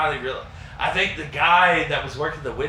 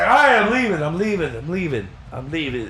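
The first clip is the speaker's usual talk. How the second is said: fading retreat. Retold or imitated. Backing away, repeating.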